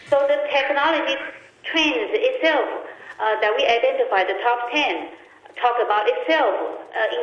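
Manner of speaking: speakerphone sound; talking over a speakerphone. Real, not acted. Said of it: "it sounds like you're on a speakerphone".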